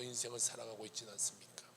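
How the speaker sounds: soft whispered question. Real, not acted. Preacher whispering a question to the congregation. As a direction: ask it under your breath.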